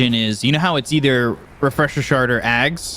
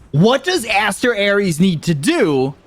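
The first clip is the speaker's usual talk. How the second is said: caster's posed question; 7 semitones higher than usual. Acted.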